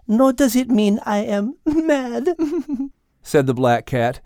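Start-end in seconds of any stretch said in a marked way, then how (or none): 0.1-2.4 words breaking into a laugh. Acted. Cat laughing at Al's mistake while speaking. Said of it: "still laughing as she spoke". 2.8-3.2 high, laughing French lady cat; amused French cat. Acted. Cat correcting Al, high amused French voice.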